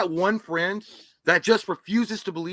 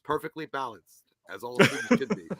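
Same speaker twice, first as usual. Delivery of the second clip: Thanos voice; 4 semitones lower than usual. Retold or imitated. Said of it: "like fucking Thanos".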